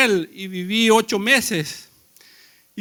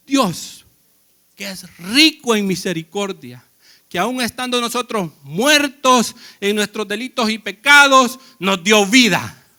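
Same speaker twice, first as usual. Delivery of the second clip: preached louder, punching pecados and nos dio vida; emphatic preaching; 3 dB louder than usual. Acted. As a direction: drive the verse home to the church. Repeats verse, preaching it.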